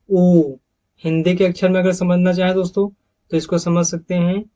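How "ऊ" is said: ऊ held long and rounded, a bit louder; long oo sound. Shown as a demonstration. Teacher introducing the second long vowel: stretched oo. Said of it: "दूसरा sound long vowels का".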